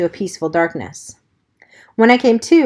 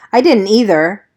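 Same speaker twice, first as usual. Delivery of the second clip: bored tough; 4 dB louder than usual. Acted. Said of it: "in a bored, tough voice".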